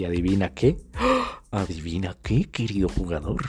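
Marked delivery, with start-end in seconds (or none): 0.8-1.4 sudden frightened intake of breath; sharp high gasp. Retold or imitated. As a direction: gasp in shock. Reacción de susto. (jadeo agudo de susto)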